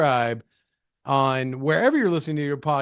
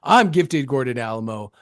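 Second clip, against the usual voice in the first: a hint of a classic rock singer's croon, higher; rock singer voice; 5 semitones higher than usual. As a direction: lightly ham up the rocker voice. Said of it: "I've been working on my voice with a rock singer".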